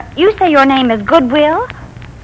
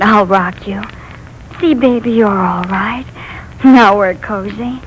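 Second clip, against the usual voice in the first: put-on soft, soothing lull to a frightened child; rocking a scared boy in her arms; gentle softer murmuring comfort; tender comfort; 3 semitones lower, 3 dB quieter than usual.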